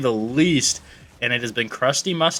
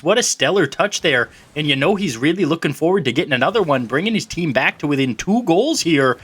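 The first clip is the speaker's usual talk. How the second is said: put-on light Canadian accent; 3 semitones higher than usual. Caster calls the goal for his partner in a light Canadian accent. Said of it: "calling out that goal there in your nice little Canadian voice".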